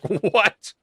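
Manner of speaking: high, baffled mock what; a shocked, disbelieving what; stunned what. Friends reacting to the strange answer, high and stunned. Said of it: "We were like".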